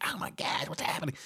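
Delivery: hushed, breathy mock alarm; imitating the pizza man's startled reaction. Pizza man turning to the crash, mock alarm.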